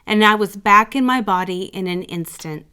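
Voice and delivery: usual speaking voice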